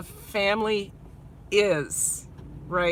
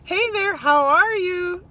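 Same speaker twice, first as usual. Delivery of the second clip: shared greeting cadence; 8 semitones higher, 5 dB louder than usual. Retold or imitated. Imitating the cadence streamers use to greet people. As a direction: lift the hey and linger on how are you. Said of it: "we all are starting to get the same cadence".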